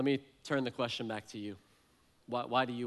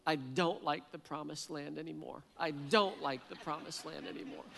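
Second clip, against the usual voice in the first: higher-pitched, mildly pleading child imitation; retold child's tearful plea, raised pitch; crying young daughter; 4 semitones higher than usual. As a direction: lightly voice a little girl protesting at bedtime. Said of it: "she's crying".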